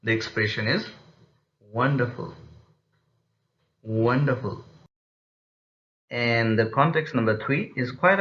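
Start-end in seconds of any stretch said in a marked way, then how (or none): 1.6-2.3 "Wonderful" starting up and gliding down; falling tone. Shown as a demonstration. Teacher shows students an exclamatory sentence, falling tone. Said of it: "we again use falling tone". 3.8-4.6 "Wonderful" with a steady downward glide; falling tone. Shown as a demonstration. Teacher repeats the exclamatory example, falling tone. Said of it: "we again use falling tone".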